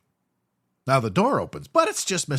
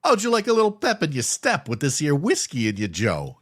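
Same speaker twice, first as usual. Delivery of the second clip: higher, louder sleazy charmer voice; sleazy working guy; 6 semitones higher, 5 dB louder than usual. Retold or imitated. Sleazy neighbour hitting on the tenant, louder and higher. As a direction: lay it on like a greasy charmer. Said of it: "he's like".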